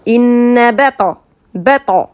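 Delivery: "Inna bata" with long N and heavy echoing T; grave bounced ta. Shown as a demonstration. Teacher isolates the letter, heavy bouncing "bata". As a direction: rebound darkly on the T of "bata". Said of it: "le son va sortir très grave".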